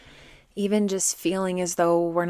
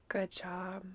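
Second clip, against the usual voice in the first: guided meditation; 8 dB quieter than usual. Acted. Teacher guides listeners to shine light on fear, soft meditation voice. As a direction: guide them gently inward, softly, leaving space.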